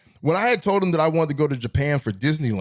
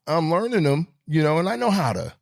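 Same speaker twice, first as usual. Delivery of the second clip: lighter, higher-pitched friendly patter; lightened voice; 6 semitones higher than usual. Shown as a demonstration. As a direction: lighten your voice to seem less dangerous. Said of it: "I can lighten my voice up".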